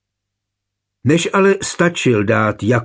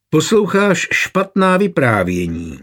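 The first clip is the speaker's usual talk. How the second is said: higher-pitched, snide correction; snide reproof; 7 semitones higher than usual. A narrator's reading. Knight corrects the pale girl, snidely. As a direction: chide her with a sneer in the voice. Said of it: "napomenul jízlivě Čejchan".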